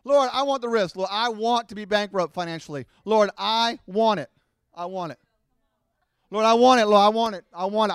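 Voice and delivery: put-on stubborn child begging God for the risk; demanding believer. Preacher mocking believers who demand the risk. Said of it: "This is what we say".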